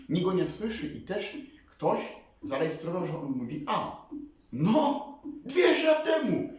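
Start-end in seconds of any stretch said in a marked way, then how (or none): 4.5-6.5 much higher, louder amazed cry with a laugh. Real, not acted. Telling viewers the discovery amazed him, laughing. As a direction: burst out in disbelief, laughing. Amazed at two hundred years.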